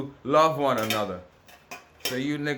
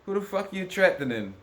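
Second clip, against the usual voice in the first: high-pitched furious comeback; angry retort; 8 semitones higher than usual. Retold or imitated. To the man threatening him, a high furious retort. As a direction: snap back, pitched way up. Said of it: "I'm like".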